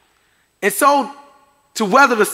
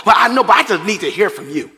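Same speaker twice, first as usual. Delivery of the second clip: fast, half-shouted protest; frustrated plea; faster than usual. Retold or imitated. Believer pleading with friend on the phone, mock shouting. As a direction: blurt it out, exasperated.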